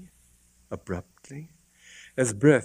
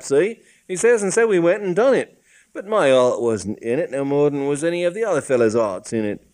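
indignant cockney constable, rising; annoyed policeman; 4 semitones higher, 4 dB louder than usual. Acted. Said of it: "a look of annoyance".

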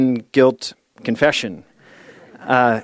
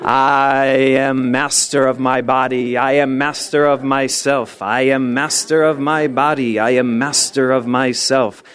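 Tarzan role. Pretend. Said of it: "a new Tarzan role".

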